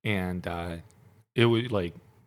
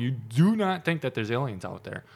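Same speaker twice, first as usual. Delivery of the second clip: incredulous; 3 semitones higher than usual. Retold or imitated. Presses point in retold argument.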